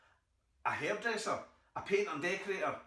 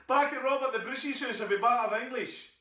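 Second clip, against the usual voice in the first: laughing through it; 9 semitones higher, 6 dB louder than usual. Acted. Laughing through the rallying cry.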